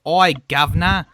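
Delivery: mock British accent. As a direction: bark out a cheeky Cockney greeting in a put-on British accent. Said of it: "That's British".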